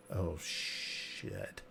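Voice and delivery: breathy muttered dismay; whispered curse. Retold or imitated. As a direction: say it under your breath. Player's inner reaction, whispered.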